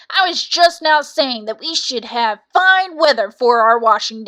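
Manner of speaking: loud, aggrieved cock crowing his woes; indignant rooster. Acted. Cock complains of his mistress.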